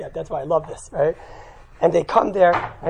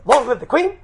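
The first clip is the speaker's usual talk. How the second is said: mock scream; 5 semitones higher, 7 dB louder than usual. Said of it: "somebody screams".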